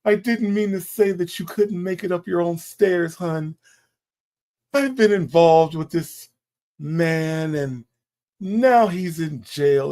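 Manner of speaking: a hint of a simpering guest begging forgiveness; light mock contrite plea; mimicking her apology. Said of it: "she sat up there and told Steve Harvey".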